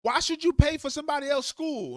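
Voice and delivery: a lightly voiced smarmy senator rallying workers; mock persuasive politician. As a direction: sweet-talk the voters like a slick politician. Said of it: "They'll get the Americans".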